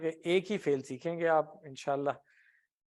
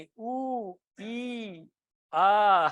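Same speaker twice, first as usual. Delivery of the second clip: drawn-out high patient's moaning; mock groans, vowel by vowel; sick person's moans; 4 semitones higher, 3 dB louder, much slower than usual. Shown as a demonstration. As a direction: moan like someone ailing. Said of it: "تو کیسی آوازیں نکال رہا ہوتا ہے".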